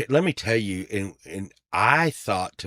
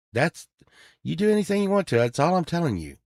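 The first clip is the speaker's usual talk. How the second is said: pitched way up, emphatic; heated retort; 10 semitones higher, faster than usual. Retold or imitated. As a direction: push back hard on him. Retold telling off the stranger.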